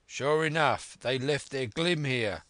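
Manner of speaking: high henchman's shout; calling from window. A narrator's reading. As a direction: call the discovery down to your leader. Fellow calls from the window.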